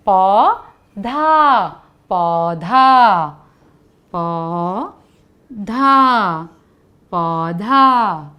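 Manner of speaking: पौधा stretched out syllable by syllable; teacher spelling out पौधा for children; very slow model word. Shown as a demonstration. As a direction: draw पौधा out very slowly. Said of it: "सोचो ज़रा".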